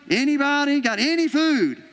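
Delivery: playful mock call. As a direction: call out asking a crowd for food. Disciples calling through the crowd.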